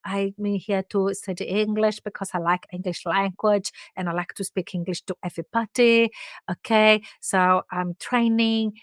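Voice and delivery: mild imitation of a Chinese accent. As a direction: imitate a Chinese client's English. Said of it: "I will give you an example".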